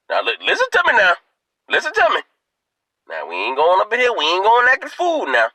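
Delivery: lightly voiced old man, coaxing and rising; granddaddy's pep talk. Grandfather coaching his daughter before the funeral, coaxing old-man voice. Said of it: "it went something like this".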